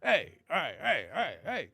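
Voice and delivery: lightly voiced nervous New York comic; a hint of a jittery old-school standup; Rodney Dangerfield. Teasing Joe in a mild Rodney Dangerfield voice. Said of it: "a white comedian that talked like that".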